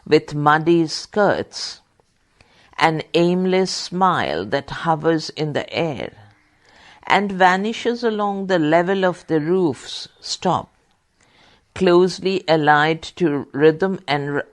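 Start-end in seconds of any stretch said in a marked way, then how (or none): 0.1-10.1 poem reading. Acted. Reads Eliot verse during dictation.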